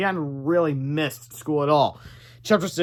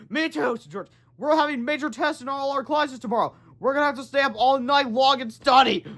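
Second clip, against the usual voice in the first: put-on kid voice; 9 semitones higher than usual. Boys panicking over tests.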